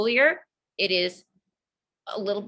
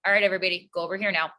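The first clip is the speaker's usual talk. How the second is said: calm, not yelling; much faster than usual. Retold or imitated. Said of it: "with a not yelling voice".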